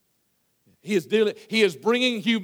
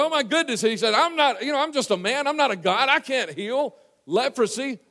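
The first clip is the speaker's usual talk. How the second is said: alarmed protest; 6 semitones higher than usual. Acted. Alarmed king acted out.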